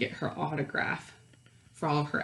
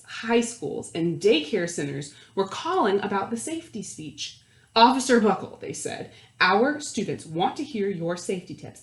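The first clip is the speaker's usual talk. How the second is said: put-on lively read-aloud voice for children; animated picture-book narrator; storybook narration; 4 dB louder than usual. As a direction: read it like story time to a class.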